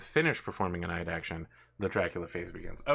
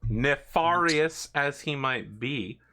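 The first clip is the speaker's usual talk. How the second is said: dramatic villain announcer; 6 semitones higher, 5 dB louder, much slower than usual. Acted.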